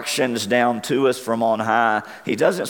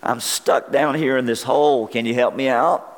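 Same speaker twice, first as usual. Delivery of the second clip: mild mock shout up from the pit, voice raised high; shouting up from a hole; 4 semitones higher than usual. Trapped man calls up to passing doctor, mock shout. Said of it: "the guy shouts up".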